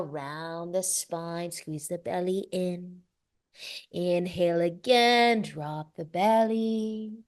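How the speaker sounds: measured yoga flow voice, key words stretched; guided breathing cues. Real, not acted. Yoga teacher leading the class through inhale and exhale, calm guided cues. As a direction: lead the movement breath by breath, unhurried.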